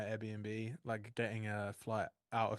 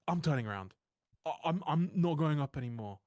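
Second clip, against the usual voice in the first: louder, higher mock panic; imitating panicked driver; 3 semitones higher, 5 dB louder than usual. Retelling the scared Uber driver refusing, mock alarm. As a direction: play the driver refusing, voice pushed up. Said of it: "he was losing it".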